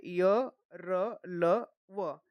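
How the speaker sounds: य, र, ल, व each drawn out separately; pronunciation demonstration. Shown as a demonstration. Teacher showing the four semivowels, slow separate articulation. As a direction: slowly list the letters य, र, ल, व. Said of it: "तो देखिए".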